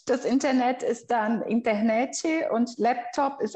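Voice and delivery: "Internete" with an extra E at the end, Brazilian style; Brazilian epenthetic vowel. Shown as a demonstration. Guest shows the Brazilian extra vowel: a clear "Internete". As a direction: add a short E after "Internet", the way Brazilians do.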